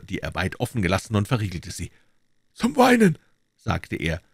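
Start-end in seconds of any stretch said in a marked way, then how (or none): 2.5-3.2 a sharp, raised voice, higher; the doctor stopping Silas from weeping, sternly. A narrator's reading. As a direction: cut the tears off firmly.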